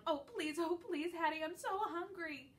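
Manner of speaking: high, whiny begging; whimpering plea. A narrator's reading. Dog begging Hattie for food, high whimpering plea. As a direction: beg like a pitiful puppy. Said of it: "I whimper and I moan".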